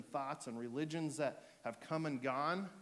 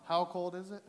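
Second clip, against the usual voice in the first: mock call-out; 5 semitones higher, 6 dB louder than usual. Opening joke bit with congregation.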